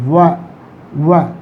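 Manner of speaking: WA, an isolated w-glide syllable; consonant glide demo. Shown as a demonstration. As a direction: sound out "Wa" on its own, twice. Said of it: "This is a sound again".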